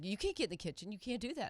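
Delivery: insistent objection, lightly acted; retold arguing. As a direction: imitate someone arguing the rule. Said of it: "literally will argue with me and be like".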